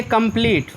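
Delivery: "कंप्लीट" with a long ee in the last syllable. Shown as a demonstration. Teacher shows learners the silent-e rule, long ee in "कंप्लीट". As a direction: stretch the ee of "कंप्लीट", final e silent. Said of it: "ली पढ़ते हैं, बड़ी एक मात्रा".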